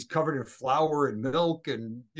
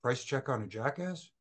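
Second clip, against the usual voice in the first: unsure, quieter, trailing into a question; mumbled, a bit embarrassed; sheepish repeat; 6 dB quieter than usual. Retold or imitated. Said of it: "I said".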